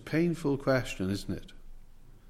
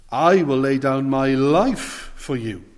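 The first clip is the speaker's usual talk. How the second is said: bold vow; 7 dB louder than usual. Acted. Peter's bold vow quoted.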